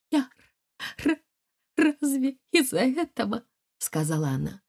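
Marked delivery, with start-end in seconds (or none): 0.1-3.4 high, stumbling words through tears; tearful stammer. Acted. Wife answering her husband through tears, stammering. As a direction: choke out the question, weeping. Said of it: "Плача".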